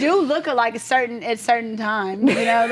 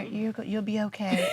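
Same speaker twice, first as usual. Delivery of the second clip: half-hearted comfort; 8 dB quieter than usual. Retold or imitated. Comforting crying friend, one finger.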